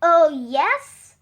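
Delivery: disbelieving. Acted. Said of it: "some of them said disbelievingly".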